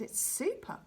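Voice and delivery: high, whispered delight; dreamy hush. Acted. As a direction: breathe it out in awe. Boy savouring the game.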